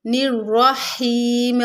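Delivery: निर्रहीम with a full, heavy ra and drawn-out ही; slow recitation of निर्रहीम, ra made heavy. Shown as a demonstration. Teacher showing a heavy ra in निर्रहीम. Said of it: "रा को पुर पढ़ेंगे".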